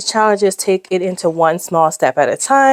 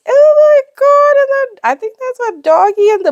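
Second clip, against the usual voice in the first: squeaky gush; 5 dB louder than usual. Real, not acted. Gushing over cats page.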